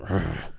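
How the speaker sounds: short, soft growl of frustration; frustrated growl. Retold or imitated. Parent getting really worked up with child, muted growl. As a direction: let out a low exasperated grr. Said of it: "when I'm getting really kind of".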